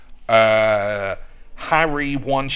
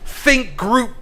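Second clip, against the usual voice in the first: high, loud streamer meltdown; mock tyrant tantrum at a troll; DSP; 9 semitones higher, 8 dB louder than usual. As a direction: rant at the chat, voice pitched up and loud. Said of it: "I wish I could do a D S P accent".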